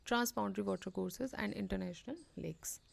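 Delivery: reading the news item aloud very slowly; measured, deliberate read-aloud of a report. Acted. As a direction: read it slowly, like dictation to students. Slow dictation-style reading of news.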